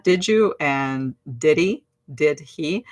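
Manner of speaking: Did you? as didja and Did he? with the H dropped, did-ee; linked sounds. Shown as a demonstration. Teacher running through the linked forms students learned. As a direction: blend Did you? and drop the H in Did he?. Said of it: "together with that".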